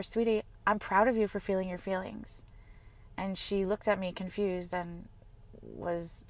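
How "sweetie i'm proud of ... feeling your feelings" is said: tender retold words. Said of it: "and I said to her".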